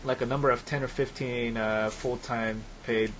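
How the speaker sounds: choppy robotic connection audio; breaking up like a glitchy robot. Real, not acted. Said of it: "you sound like a crazy robot to me".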